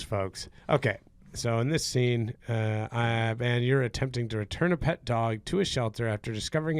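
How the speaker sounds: warm up the crowd at a comedy club; mock stand-up host voice; club emcee. Addresses comedy club audience.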